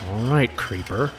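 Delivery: a touch of a soft wry mutter; wry aside. Acted. To herself after passing the strange woman, a mild wry mutter. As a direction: mutter it under your breath, a little spooked.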